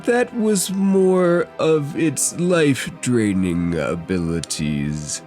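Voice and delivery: deliberate, portentous lore-giving; ominous game figure. Acted. GM voices figure explaining the beast.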